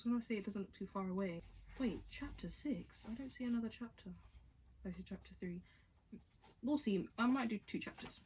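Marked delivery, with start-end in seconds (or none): 4.9-5.6 whispered aside to herself. Real, not acted. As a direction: whisper it, flipping pages. Mutters to herself.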